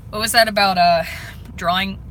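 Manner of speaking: drowsy, nodding off; half asleep. Real, not acted. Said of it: "I'm half asleep right now".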